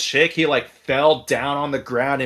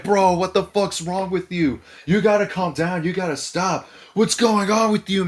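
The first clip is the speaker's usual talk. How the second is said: higher-pitched mock pleading; imitated remonstrating; 6 semitones higher than usual. Dudes trying to calm the drunk, high mock remonstrating. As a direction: act out friends talking someone down. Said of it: "trying to calm him down".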